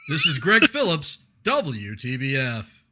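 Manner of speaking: reporter sign-off breaking into a laugh; radio reporter voice, laughing. Shown as a demonstration. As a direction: try the station sign-off but crack up. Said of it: "that was my reporter voice".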